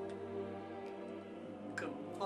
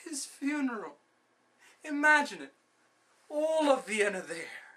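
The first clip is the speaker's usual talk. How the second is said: high, swelling excited vision; rising excitement; 11 semitones higher, 6 dB louder than usual. Acted. Schemer imagining his rival's funeral, excitedly exclaiming. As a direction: burst out with the grand picture.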